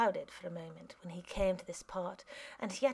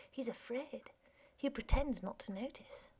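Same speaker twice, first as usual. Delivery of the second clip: quietly; 3 semitones higher, 5 dB quieter than usual. Acted. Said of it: "Eugene said quietly".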